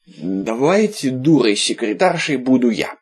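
slow, easygoing friendly offer; smooth things over gently; peaceable. Acted. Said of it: "миролюбиво предложил Виталик".

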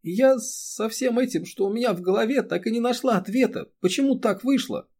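high, tearful outpouring; a high, weeping lament; crying. A narrator's reading. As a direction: speak through rising tears. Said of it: "Эри тихо заплакала".

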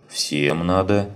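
flat officious bureaucrat. Acted. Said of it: "глубокомысленно констатировала женщина".

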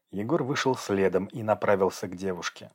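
plain reading voice

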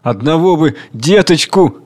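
a touch of tearful whining; old man pleading for one child; whiny plea. Acted. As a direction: beg with a sniffle. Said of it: "Плаксиво шмургает носом и просит".

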